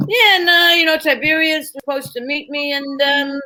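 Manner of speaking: mock American actor improvising Shakespeare; casual ad-lib with a hint of movie-star impression; Dustin Hoffman. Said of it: "Dustin Hoffman doing Shakespeare".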